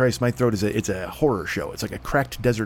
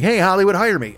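mock plea; 7 semitones higher, 4 dB louder than usual. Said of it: "I'm like".

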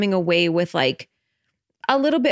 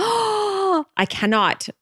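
very slow, much higher I cannot; dramatic drawn-out I cannot; drawn-out emphasis; 13 semitones higher, much slower than usual. Real, not acted. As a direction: stretch out I cannot, high and dramatic. Emphatic confession about British accents.

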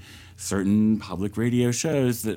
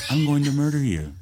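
public radio voice; 4 semitones higher than usual. Shown as a demonstration. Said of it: "public radio voice".

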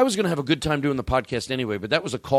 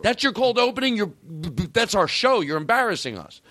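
high, indignant mock complaint from rival shows; mock outrage; 9 semitones higher than usual. Rival shows scoffing at his cold opening, high indignant mock outrage. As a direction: play the other podcasts, offended and whining. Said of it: "They're like".

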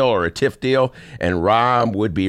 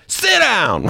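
higher, firm "Sit down!"; mayor telling Evil Ed, firm and raised; sharp command; 13 semitones higher, 3 dB louder than usual. Retold or imitated. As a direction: snap the order at him. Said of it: "To which Lori said".

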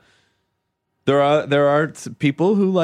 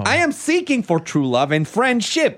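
lightly put-on Eastern European accent, higher; mock foreign accent; 5 semitones higher than usual. Podcast host reads a spam love letter in mock Russian accent. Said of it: "I'll read it in the accent I assume it was written in".

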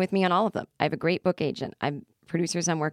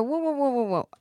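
1 stunned whoa; 7 semitones higher than usual. Retold or imitated. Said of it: "I go".

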